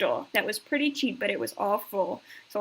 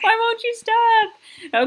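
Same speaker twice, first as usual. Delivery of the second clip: high, slow, exasperated plea; exasperated protest; 11 semitones higher, 6 dB louder, slower than usual. Real, not acted. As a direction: beg it to stop, fed up. Yelling at the clip that keeps playing.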